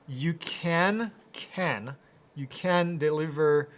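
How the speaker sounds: "can" drawn out and punched; stress on can. Real, not acted. Correcting a flat no to a viewer, stress on "can". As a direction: lean hard on "can", pausing after it.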